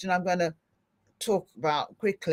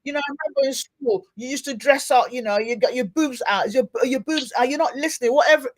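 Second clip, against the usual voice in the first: mock gossipy judge; 5 semitones higher than usual. Mocks a judging, gossiping voice.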